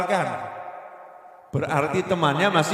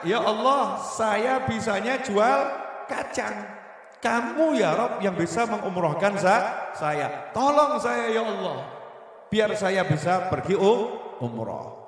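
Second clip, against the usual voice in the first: higher, slower earnest plea; pleading peanut seller; 4 semitones higher than usual. Retold or imitated. A peanut seller begging God to send him on umroh, higher. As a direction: beg humbly, reaching upward.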